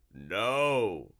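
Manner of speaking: a monster squealing in revulsion; frightened creature. Acted. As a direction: shrink back and shove the words away. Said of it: "it said".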